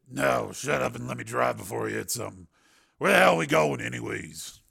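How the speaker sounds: lightly voiced grizzled old man, irritable; a hint of a cranky old driver; grumbling old driver.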